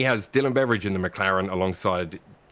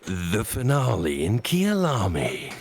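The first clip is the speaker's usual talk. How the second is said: slow, dramatic sensational announcer; tabloid host; slower than usual. Shown as a demonstration. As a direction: stretch every word like a tabloid TV host. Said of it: "Say that with a sensational voice".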